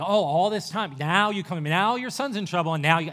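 hammed-up sneering reproach; mock sneering rebuke. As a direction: throw it back at him with contempt. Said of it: "kinda sneer at him and go".

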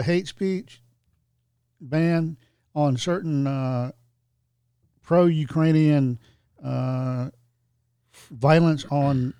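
slow, mocking corporate voice; mock announcement. Telling a friend about the tech giants, slow sarcastic mock quote. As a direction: drag it out like a smug press release. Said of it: "have recently said".

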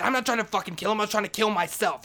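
high, shouted self-defence; frantic denial. Retold or imitated. Janitor defending himself to Maria, frantic high shouting.

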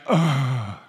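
short groan at himself; embarrassed groan. Retold or imitated. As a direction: groan in sheepish dismay. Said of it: "I felt like such".

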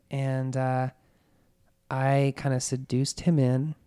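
matter-of-fact confession, evenly delivered; dispassionate recital. Retold or imitated. Suspect telling police about the killing, dispassionately. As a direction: recount it as if reading from a book. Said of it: "telling it as if she read it in a book".

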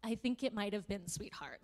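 tender. Retold or imitated. A teacher reassuring a little girl, tender. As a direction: reassure a small child gently. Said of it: "I was like".

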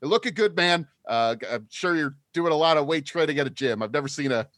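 Minotaur bro voice. Acted. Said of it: "I try to sound like a Minotaur".

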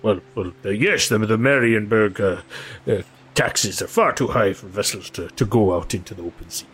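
lightly voiced river boatman; earnest, lively protest from a simple bargeman; superstitious boatman. Boatman talks of taxes.

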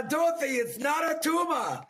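Schwarzenegger impression. Shown as a demonstration. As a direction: try an Austrian Arnold accent and crack up. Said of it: "that was Terminator and Schwarzenegger".

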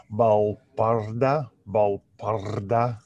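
slow try at an Argentinian accent; careful, imperfect Argentinian pronunciation; attempted Argentinian accent. Shown as a demonstration. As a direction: sound out the name with an Argentinian accent. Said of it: "in a Argentinian accent".

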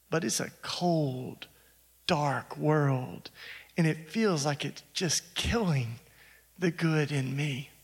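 slow, low and hushed; a touch of her weary despair. Retold or imitated. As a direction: let it sink, slow and low. Woman's despair.

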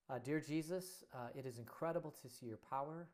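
earnest closing prayer. Real, not acted. Pastor leads the congregation in a sincere closing prayer. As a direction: speak straight to Jesus, sincerely.

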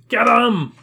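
high, loud rallying yell; crowd shout. Acted. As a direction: holler it out from the mob. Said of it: "a roar from the crowd goes up".

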